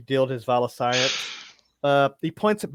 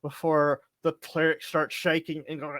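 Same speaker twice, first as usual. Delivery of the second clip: ordinary delivery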